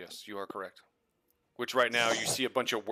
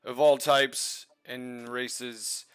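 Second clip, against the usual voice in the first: announcer voice; 5 semitones higher, 3 dB louder than usual. Acted. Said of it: "so it would be".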